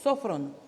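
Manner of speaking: Sofron, accent on the opening syllable; stress on first O of Sofron. Shown as a demonstration. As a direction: lean on SO in Sofron, then fall. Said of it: "con acento en la primera O".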